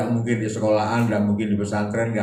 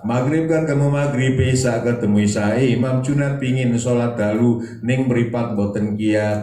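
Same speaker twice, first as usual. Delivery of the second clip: raised preaching refrain; 2 semitones higher, 4 dB louder than usual. Acted. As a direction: preach it loud, then let it sag with sleepiness. Refrain third time. (refrain khotbah keras lalu melambat)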